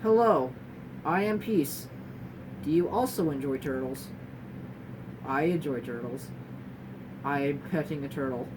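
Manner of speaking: flat, choppy monotone with halting pauses; mock robotic autistic speech pattern. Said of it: "choppy speech pattern where it's like".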